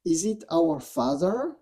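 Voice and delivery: mock-incredulous questions with rising ends; taunting. Dark voice needling Yeshua about his fast, taunting. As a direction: needle him with leading questions, imitating a tempter. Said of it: "Wow, he is taunting him".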